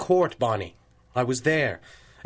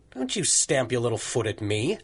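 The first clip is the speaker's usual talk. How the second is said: a hint of a stern parent; mock scolding, lightly done; stern parental tone; 4 semitones lower than usual. Judge teasing his secretary with a stern parent's tone. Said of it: "two can play at the stern parental tone".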